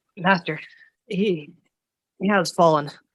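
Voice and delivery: gasping for breath, winded speech. Narrating a winded messenger who falls to a knee before speaking, gasping for breath. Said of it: "in gasping breaths".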